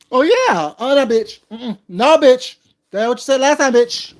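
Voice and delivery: loud, sassy "no, bitch" put-down; sassy mock retort. Mimicking Kwani shutting someone down, sassy and loud. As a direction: throw it back at her with attitude. Mocking someone's reply, quoted.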